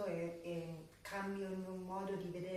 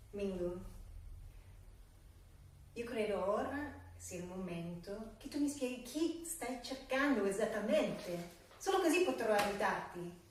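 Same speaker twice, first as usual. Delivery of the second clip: insistent demand; 3 semitones higher, 5 dB louder than usual. Acted. Acted scene, pressing the client.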